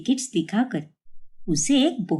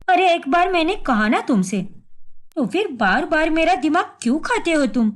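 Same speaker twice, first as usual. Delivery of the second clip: irritated outburst; 2 semitones higher than usual. Acted. Wife snaps at husband.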